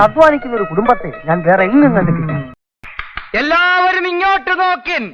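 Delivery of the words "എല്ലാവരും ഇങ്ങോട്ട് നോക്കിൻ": high, sustained call for attention. Acted. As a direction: call to the whole group, pitched high. Calls everyone's attention. (ഉയർന്ന സ്വരത്തിൽ എല്ലാവരെയും വിളിക്കുന്നു)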